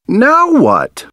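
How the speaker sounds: high, alarmed question; dismayed cry. A narrator's reading. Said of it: "we cry".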